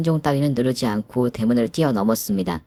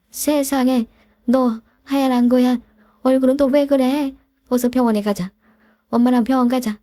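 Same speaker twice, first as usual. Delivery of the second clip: higher, urgent panicky voice; mother panicking over her collapsed daughter; panicked mother; 11 semitones higher, 3 dB louder than usual. Acted. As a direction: rush her out, frightened for her child.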